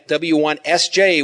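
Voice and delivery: each letter spoken slowly and apart; slow, enunciated call sign. Shown as a demonstration. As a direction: slowly separate W, one, S, J. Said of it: "So when I say W".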